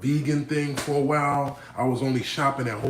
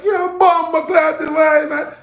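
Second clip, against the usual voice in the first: slow, high, bellowed Chinese Jamaican cursing; Chinese Jamaican accent; 12 dB louder, slower than usual. Retold or imitated. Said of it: "you just wanna hear the accent".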